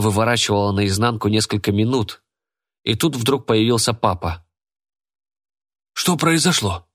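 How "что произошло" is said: father snaps, high and sharp; sharp question. A narrator's reading. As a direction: demand it sharply. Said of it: "резко спросил он". (отец резко спрашивает сына)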